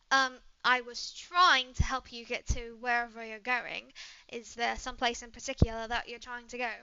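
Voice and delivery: polite, mildly put-out British traveler; lightly British-accented, courteous and helpful; British woman, composed. Acted. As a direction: decline politely, then offer help in a British accent.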